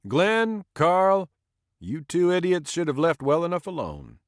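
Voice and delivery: high, loud scolding voice; scolding old man. Acted. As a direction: scold the two idiots, amused. Bill scolds the two drunks.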